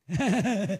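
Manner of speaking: soft far-off chuckle mimicking the criminal; a quiet eerie snicker; imitated killer's laugh. Preacher imitating the criminal's soft laugh. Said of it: "Parang ganito, mga kapatid".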